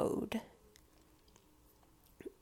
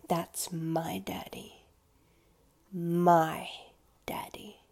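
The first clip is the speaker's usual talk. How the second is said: imagined possessive sub; 2 semitones lower, slower than usual. Pretend. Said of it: "my sub saying".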